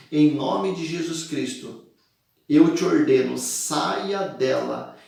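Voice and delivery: firm, slow command to the spirit; exorcist's commanding tone; commanding exorcism. Retold or imitated. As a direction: order the spirit out with authority. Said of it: "disse ao Espírito".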